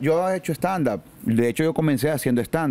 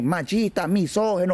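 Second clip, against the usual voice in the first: mild mocking heckler; 5 semitones higher than usual. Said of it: "Entonces vino la maje".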